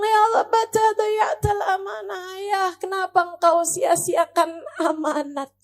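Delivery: put-on mildly tearful child's plea; ratapan anak. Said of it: "Anak bilang". (ratapan anak yang lirih)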